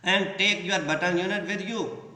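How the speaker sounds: each word drawn out slowly for the class; teacher reading a quote aloud slowly. Shown as a demonstration. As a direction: read it out slowly and clearly.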